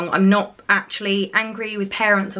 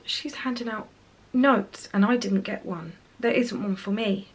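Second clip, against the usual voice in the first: put-on softer, small hurt child's voice, lightly done; retold sad child; 5 dB quieter than usual. Mum voices daughter left without a note, softly hurt. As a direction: quietly echo the little girl's disappointment.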